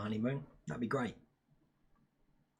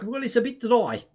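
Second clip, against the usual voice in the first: imitated South African, pitched up; South African accent; 5 semitones higher than usual. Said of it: "we had to speak like".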